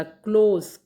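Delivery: क्लोज said loud with an O glide; model pronunciation. Shown as a demonstration. Teacher demonstrates the word's sounds, loud clear क्लोज. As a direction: punch out क्लोज as a model word. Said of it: "ओ जो है ये कहीं बोला नहीं जा रहा".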